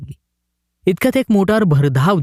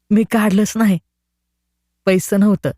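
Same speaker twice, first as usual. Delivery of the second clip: put-on higher, naive boy's voice; village boy; 6 semitones higher than usual. A narrator's reading. The boy answers the collector in a higher naive voice. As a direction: answer simply like a country boy.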